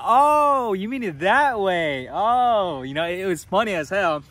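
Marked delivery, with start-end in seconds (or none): 0.0-2.8 high loud oh of dawning surprise; a touch of surprised oh; mock realization. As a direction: act out the penny dropping. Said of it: "I was like".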